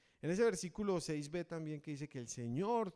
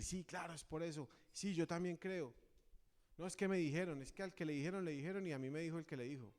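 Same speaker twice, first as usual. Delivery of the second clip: gossiping hearsay; 4 semitones higher than usual. Retold or imitated. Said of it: "No salir a la ligera a decir".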